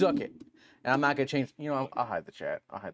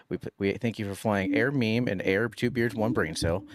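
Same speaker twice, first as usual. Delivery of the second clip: pilot announcement. Acted. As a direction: address passengers like a pilot over the intercom. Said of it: "do the intro for the podcast like you're flying a plane".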